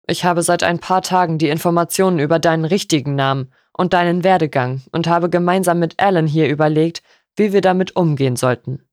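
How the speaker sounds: a hint of a measured father introducing someone; lightly voiced stern father.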